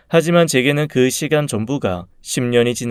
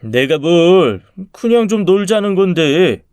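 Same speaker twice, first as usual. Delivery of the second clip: drawn-out, raised-pitch protest; bully's whiny excuse; 6 semitones higher, 5 dB louder, slower than usual. Acted. Bully excusing himself to the girl, protesting. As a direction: play innocent, pushing back louder. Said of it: "그 친구에게 한 소리 했어요".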